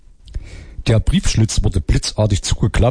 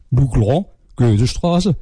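higher, lilting Saxon dialect for the phone operator Lulu; singsong Saxon vowels, a little higher; Saxon accent; 4 semitones higher than usual. Acted. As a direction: play a chatty Saxon switchboard girl. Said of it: "kommt aus Sachsen".

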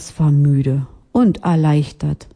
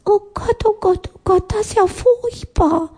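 entsetzter Spatz. Acted. Spatz vor stinkendem Essen.

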